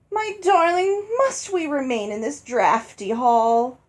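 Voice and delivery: high, pouty spoilt-wife voice; pouting wife. Acted. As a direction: whine it like a pampered new bride pouting. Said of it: "in an absurd pout".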